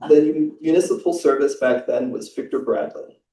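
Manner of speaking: measured, even reading of a novel's opening; calm prose reading; literary reading aloud. Acted. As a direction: read the passage to the audience with care. Reads a prize translation passage.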